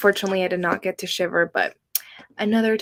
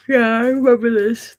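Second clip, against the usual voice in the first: louder, bright excited outburst; excited recognition; 3 semitones higher, 8 dB louder than usual. Real, not acted. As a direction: burst out with sudden recognition. Recognizes book, gasps first.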